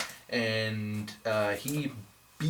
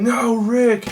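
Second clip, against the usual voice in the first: retold cry; 9 semitones higher, 4 dB louder than usual. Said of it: "Michonne is like".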